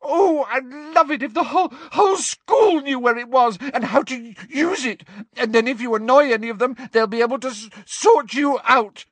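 high, loud, tearful spite; Hermione's high, sobbing outburst. A narrator's reading. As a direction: spit it out through sobs. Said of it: "now sobbing into her hands again".

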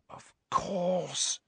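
soft, high, hushed realisation; breathed realisation. A narrator's reading. Hermione realises where the weapon is, breathed. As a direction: breathe it out softly as it dawns. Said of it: "she breathed".

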